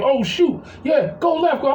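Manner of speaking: high, excited mock yell without real volume; imitated gamer yelling. Stepdad imitates stepson live-streaming a video game, mock excited yelling. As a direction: mimic someone calling out moves mid-game. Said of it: "he be in there yelling".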